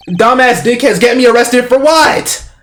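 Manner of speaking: loud, high, slow-building outrage; outraged. Real, not acted. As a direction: draw it out in loud disbelief. Player outraged at the game's twist.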